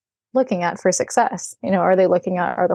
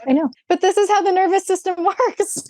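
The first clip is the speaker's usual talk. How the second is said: laughing explanation; 10 semitones higher than usual. Retold or imitated. Laughing explanation to puzzled trainers.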